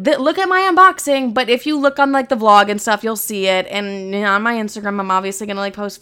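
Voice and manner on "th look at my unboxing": much higher, louder show-off voice; mock unboxing. Mocking unboxing videos, high louder show-off voice. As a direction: parody a flashy influencer. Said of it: "I don't love to be like".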